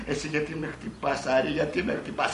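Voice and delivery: lightly voiced complaining woman; a hint of female protest; film heroine. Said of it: "Αυτή".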